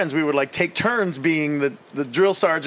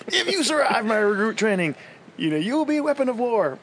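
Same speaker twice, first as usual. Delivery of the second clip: high barking drill sergeant; 9 semitones higher than usual. Retold or imitated. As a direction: scream it like a drill instructor. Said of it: "and he's like".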